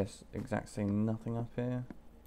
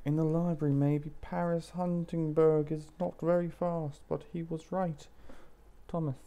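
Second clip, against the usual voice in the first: slightly raised, deliberate reading voice; letter read-aloud; 4 semitones higher than usual. Acted. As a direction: read the note out as its writer.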